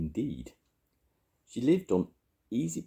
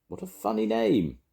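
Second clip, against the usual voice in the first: high amused granny voice; chuckling Grandma. A narrator's reading. Grandma tickled by the name, high and chuckly. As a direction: remark on it in high, tickled tones. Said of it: "chuckled Grandma Bar".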